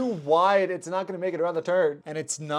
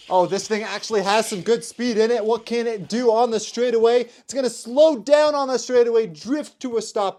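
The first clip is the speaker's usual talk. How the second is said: louder and higher as the car speeds on; rising play-by-play for the final car; excited race call; 4 semitones higher, 4 dB louder than usual. Real, not acted. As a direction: call the straightaway live, building up. Live race call, last car.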